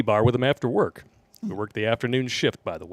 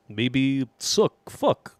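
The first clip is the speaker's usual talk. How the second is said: put-on Russian accent; much slower than usual. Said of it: "in Ivan Drago's voice".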